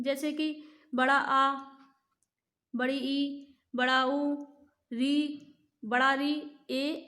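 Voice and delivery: बड़ा आ stretched out; teacher listing dirgha vowels; long vowels recited. Shown as a demonstration. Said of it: "और दीर्घ स्वर कौन से हैं?".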